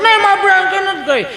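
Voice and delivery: hammed-up spoilt kid refusing food; whining child. Child turning down mother's Maggi, whining.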